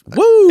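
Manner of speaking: very high, loud mock whoop; imitated yelling. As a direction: let out a piercing preacher's "woo". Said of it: "it's tears and yelling and just".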